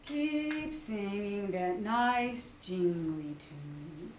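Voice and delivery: very slow, low donkey drawl; Eeyore. Acted. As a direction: plod out the words like Eeyore. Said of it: "said Eeyore".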